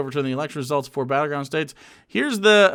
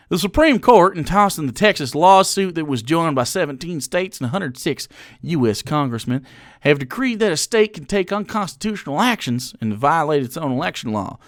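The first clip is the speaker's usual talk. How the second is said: a light Southern twang reading the statement. Pretend. Streamer reading the Texas GOP statement to chat, in a light Southern twang. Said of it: "I should do this with a Southern twang".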